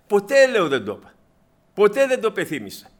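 ποτέ punched high and loud; telling her friend ποτέ, loud and firm; emphatic never. Retold or imitated. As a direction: hammer home the word ποτέ.

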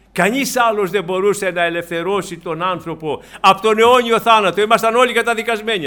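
loud preaching, building to a high peak; impassioned preaching. Real, not acted. Preacher telling believers all were condemned to death, fervent and loud.

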